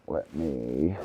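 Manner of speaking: talking around a cigarette; cigarette in mouth. Real, not acted. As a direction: cigarette held between lips. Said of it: "Let me light my cigarette here".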